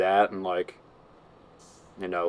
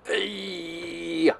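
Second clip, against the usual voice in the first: playful yell; 8 semitones higher than usual. Real, not acted. Calling out happily.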